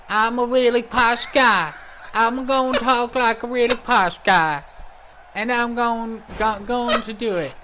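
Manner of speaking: imitating a posh English voice; mock posh accent. Mocking his co-commentator's posh accent. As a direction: send up his posh way of talking. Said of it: "You got a funny accent. You sound like a".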